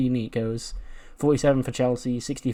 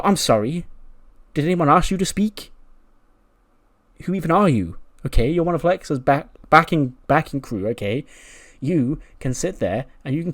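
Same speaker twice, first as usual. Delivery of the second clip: higher, indignant diva scolding; acted offended condescension; haughty put-down; 4 semitones higher than usual. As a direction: put an underling in their place. Charlotte puts Tatum down.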